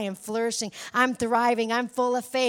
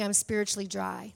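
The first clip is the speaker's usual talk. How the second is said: mock dry; 4 semitones lower, 4 dB quieter than usual. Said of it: "instead we're saying".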